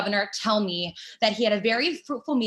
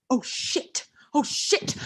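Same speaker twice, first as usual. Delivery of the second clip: hushed panicked whisper; 2 semitones higher, slower than usual. Real, not acted. Woman caught fantasizing when Pete returns, whispering. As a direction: breathe it out in alarm.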